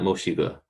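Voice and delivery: quick silly Mochigo; joke mispronunciation. Shown as a demonstration. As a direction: rattle off the silly wrong form. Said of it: "definitely not".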